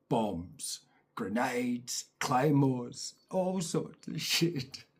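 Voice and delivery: a whispered reveal. Real, not acted. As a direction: breathe the word out in awe. Hushed reveal.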